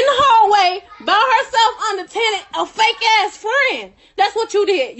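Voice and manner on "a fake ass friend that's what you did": slow, spat-out insult; drawn-out angry jab; angry accusation. Real, not acted. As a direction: call her out slowly. Heated accusation in argument.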